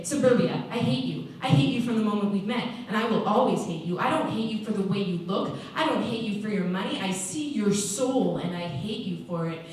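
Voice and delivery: loud, insistent declaration of hate; vehement hatred. Acted. Inmate demonstrating hatred to a newcomer, vehement. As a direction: hammer out each phrase forcefully, settling at the end.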